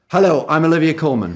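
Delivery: upbeat channel ident greeting; light promo read. Acted. Actor greeting BBC America viewers, light promo read. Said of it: "Comedy, drama".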